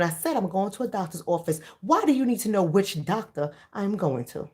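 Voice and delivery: dead-serious demo of grilling the attendant; serious confrontation. Shown as a demonstration. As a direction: lean out of the car window and press him. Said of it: "let me show y'all how I did it".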